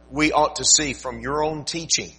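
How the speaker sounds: earnest pulpit prayer that rises then fades to a hush. Acted. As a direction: pray aloud for guidance, softening at the end. Pastor prays before sermon.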